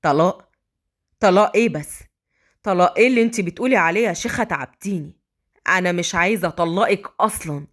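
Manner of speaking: low male voice, taken aback; shocked protest in a man's register; Adham, shocked. Acted. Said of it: "أدهم بصدمة".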